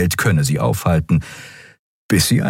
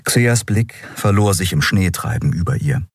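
usual speaking voice

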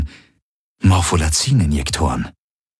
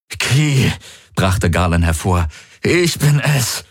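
pleading, higher and slow; desperate; 3 semitones higher, slower than usual. Acted. Garland to Kirai, desperate plea. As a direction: make her believe it is you. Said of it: "Die Verzweiflung in seiner Stimme".

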